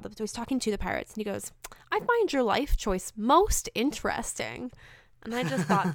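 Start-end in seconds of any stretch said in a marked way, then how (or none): 1.9-4.7 slow, slightly raised character quote; measured imitation with marked inflection; Niku. Fan quoting Niku to the pirates, imitating the inflection. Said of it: "The inflection was great".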